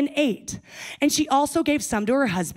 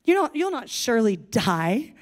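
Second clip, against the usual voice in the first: sarcastic. Acted. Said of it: "Do you hear the sarcasm?".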